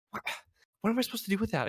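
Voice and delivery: high, rapid exasperated comeback; mock-aggressive retort. Hungry guest rejecting an offered Snickers, exasperated and aggressive. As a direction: burst out in comic indignation. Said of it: "my aggressive side is starting to come out".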